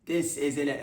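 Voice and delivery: a hint of a mock Aussie drawl; quoted line. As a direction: mimic the line from the clip. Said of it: "somebody said".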